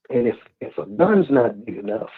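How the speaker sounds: breathless, gasping for air; catching breath between words. Real, not acted. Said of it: "I done got out of breath".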